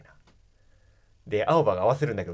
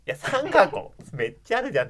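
surprised; 10 semitones higher than usual. Retold or imitated. Shocked at three boxes.

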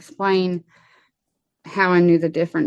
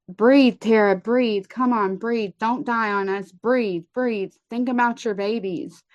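higher, urgent coaxing, calling her back; urgent pleading; 4 semitones higher than usual. Retold or imitated. Lieutenant doing CPR begs the patient to breathe, urgent higher pleading. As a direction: push each breathe like you're willing her to live.

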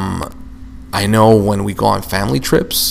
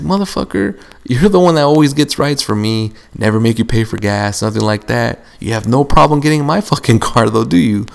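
playful clap back; 2 semitones higher than usual. Retold or imitated. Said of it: "throwing it right back".

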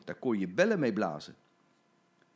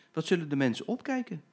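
higher, delighted with himself; gleeful anticipation; 5 semitones higher than usual. Acted. Jim gloating about the surprise, gleeful. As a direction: relish the surprise to come. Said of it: "zei Jim".

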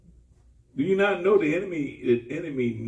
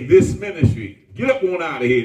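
firm dismissal; 5 dB louder than usual. Retold or imitated. Dismissing Simon.

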